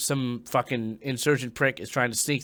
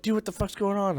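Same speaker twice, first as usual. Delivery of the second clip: higher-pitched retold question; alarmed relief guard; 8 semitones higher than usual. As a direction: imitate a buddy running up bewildered. Relief runs up after hearing yell.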